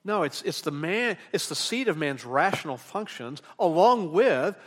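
forceful, mounting sermon list; emphatic preaching. Real, not acted. Preacher listing the faculties of the heart to the congregation, emphatic preaching.

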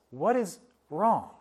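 slow, soft, tender question; gentle loving father. Acted. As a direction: ask it softly like a caring father. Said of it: "our loving Father".

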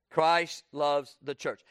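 "Christ loves the church" drawn out slowly; slow, weighty repeat. Shown as a demonstration. Preacher repeats to the congregation, slow and deliberate. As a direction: let each word of "Christ loves the church" land. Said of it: "I want you to kinda notice".

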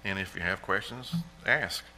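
put-on a father calmly steering his worried boy. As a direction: quietly reassure your son. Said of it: "And Dad just calmly said".

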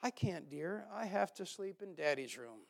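soft, gently tender mother. A narrator's reading. Mother refuses her small son at bedtime, mildly tender. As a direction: let it down softly and kindly.

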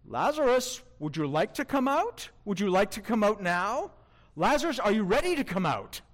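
mock-hesitant questions, rising at the end; timid asking. Shown as a demonstration. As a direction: tentatively coax him out, no authority.

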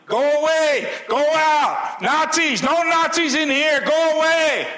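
very high, loud mock Russian shout: go away; a hammed-up Russian pastor yelling Nazis away; high loud Russian-accented shouting at police. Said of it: "he had that Russian accent".

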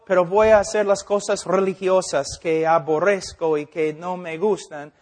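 pecador imaginado. Retold or imitated. Pecador imaginado habla al pastor.

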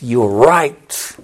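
very slow and measured, word by word; slow, deliberate. Acted. Preacher voicing Jesus answering Pilate, slow and deliberate. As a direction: lay each word down slowly like a confession. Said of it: "The Old English expression is".

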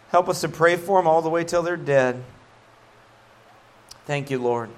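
earnest, evenly phrased public prayer; closing prayer. Real, not acted. Pastor thanking God before the congregation, earnest prayer. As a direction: pray aloud in steady, repeated phrases of thanks.

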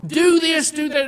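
imitating a father ordering servants around; barking orders. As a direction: bark it like a bossy father. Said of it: "starts barking orders".

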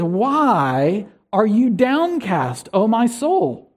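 slow, drawn-out reading of downcast; slow psalm quote. Retold or imitated. Pastor quoting the psalmist's refrain, slow and drawn out. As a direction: let the psalmist's question stretch out slowly. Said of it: "Notice how the psalmist ... says".

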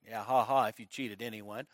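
low, very soft mocking aside; muttered crowd scoff. Preacher imitating the crowd reacting to Zacchaeus, muttered scoff. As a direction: mutter it like a sceptical bystander under their breath. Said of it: "everybody's like".

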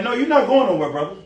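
Peter's rising rebuke ending in a shout; hammed-up rebuke; rebuking. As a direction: tell Jesus he's not going anywhere. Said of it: "Peter rebuked Jesus".

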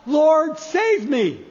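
loud cry for help on Lord; sinking man's cry. Acted. Peter sinking in the storm, crying out loud. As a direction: call Lord out loudly, then save me. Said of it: "he cries out".

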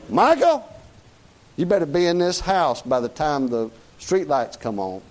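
put-on a mom hollering her boy home; mama calling out. Preacher voicing a mama calling her son home.

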